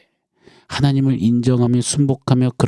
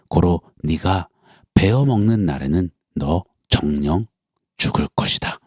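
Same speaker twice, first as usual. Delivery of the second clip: solemn God's warning; 3 semitones lower than usual. Acted.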